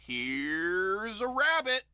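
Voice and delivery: drawn-out stage magician call; showman announcement. Acted. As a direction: stretch it like a grand reveal. Magician pulling from top hat.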